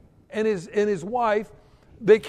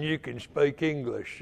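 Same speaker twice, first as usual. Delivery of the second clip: regional English accent; 4 semitones lower, 4 dB quieter than usual. Shown as a demonstration. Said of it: "they had the right accent".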